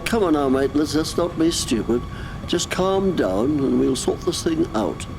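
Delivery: low, placating voice; calming down. Acted. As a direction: talk him down in a low voice. Officer talks down an armed attacker.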